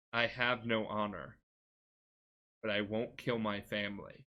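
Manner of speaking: low, restrained storytelling quote; quietly acted resolve, with pauses; solemn retold refusal. Jin in his mask spares his uncle, solemn.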